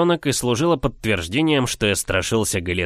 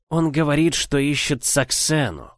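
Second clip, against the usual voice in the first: put-on old witch voice; 4 semitones higher than usual. A narrator's reading. Memantuza continues speaking.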